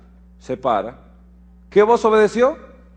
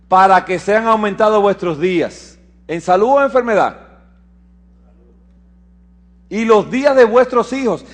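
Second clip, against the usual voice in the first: lectura de las Escrituras; 3 semitones higher, 4 dB louder than usual. Acted. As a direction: proclaim the verse to the congregation. (lectura bíblica proclamada con fuerza)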